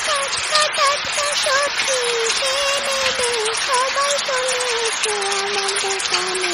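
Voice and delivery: hawker's call. Acted. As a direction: lure buyers with fresh vegetables. Vendor calls customers again.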